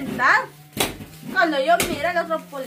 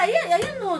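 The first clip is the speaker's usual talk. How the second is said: a nervous laugh through the words; 6 semitones higher, 3 dB louder, much faster than usual. Real, not acted. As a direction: laugh it off while telling. Laughs while telling the beating.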